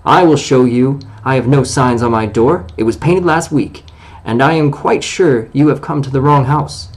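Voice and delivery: a hint of wounded pride in his voice; on his dignity. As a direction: answer proudly, offended but polite. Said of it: "being on his dignity".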